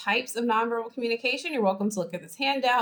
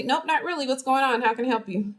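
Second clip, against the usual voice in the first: curt, higher-pitched customer-service voice; short, terse; 4 semitones higher than usual. Acted. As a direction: answer like an upset friend turned HR department. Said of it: "really short with you, really terse".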